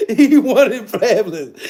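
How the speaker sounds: ordinary delivery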